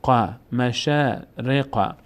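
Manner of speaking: مشارق with the long a of شا stretched slowly; slow, chanted مشارق; slow recitation. Shown as a demonstration.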